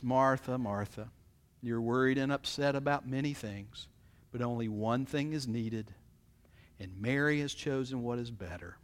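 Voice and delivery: calm him down gently; gentle correction. Acted. Jesus answering gently.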